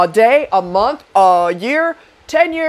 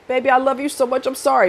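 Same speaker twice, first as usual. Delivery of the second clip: mock sweet apology; 4 semitones higher, faster than usual. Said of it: "get you on your good side and smooth it over".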